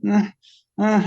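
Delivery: mock little whimpers, badly faked sobs; half-hearted put-on whimpering to be noticed; fake crying whimper. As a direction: squeeze out a pretend kid's cry. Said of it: "making that noise that all the other kids do".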